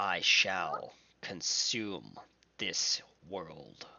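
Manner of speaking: deep, dark, menacing voice, very slow and drawn out. Voicing a second voice as the machine whirs to life: deeper, darker voice. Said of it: "another voice that's deeper and darker".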